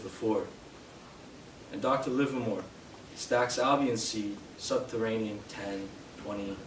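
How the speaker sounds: deliberate poetry recital with pauses between lines; poem reading. Acted. Poet reads Hiram Walker, a poem about a distillery job, measured recital. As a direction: declaim each image, then leave space.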